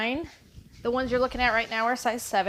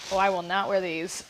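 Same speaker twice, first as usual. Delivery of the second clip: usual speaking voice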